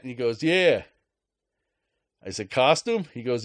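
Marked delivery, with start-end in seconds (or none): 0.4-0.8 put-on Boston accent. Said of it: "Boston accent". 2.5-3.1 mock disbelief. Incredulous reply to cashier.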